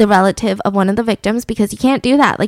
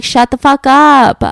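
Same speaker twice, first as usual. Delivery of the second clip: louder, slow, barked-out shut-up; mock judge snapping; 3 semitones higher, 6 dB louder, slower than usual. Judge silencing the defendant, slow loud mock snap. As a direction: bark it slowly like a fed-up judge. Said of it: "he'd be like".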